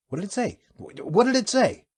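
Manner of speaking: high, rising alarm; shocked. Acted. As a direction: repeat it in disbelief. Captain demands, shocked.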